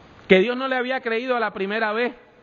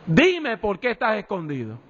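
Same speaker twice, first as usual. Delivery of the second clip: stern warning; 2 semitones higher than usual. Acted. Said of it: "en un tono que decía".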